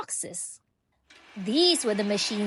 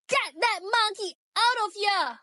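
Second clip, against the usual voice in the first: higher, indignant order to throw him out; angry yell; 9 semitones higher than usual. A narrator's reading. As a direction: scold like an outraged guide. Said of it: "she yelled".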